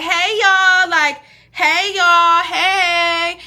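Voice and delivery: loud, high, overexcited hey y'all; screaming greeting. Retold or imitated. Walking into friend's house, screaming hello at everyone. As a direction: burst in hollering hello to the room. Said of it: "I don't ever walk in screaming like that".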